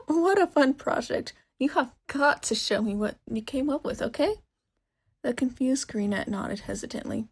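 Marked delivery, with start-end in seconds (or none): 0.1-4.4 loud, high, pushy enthusiasm; eager shopkeeper. Acted. Shopkeeper demands to see the project, excited and loud. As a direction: insist eagerly.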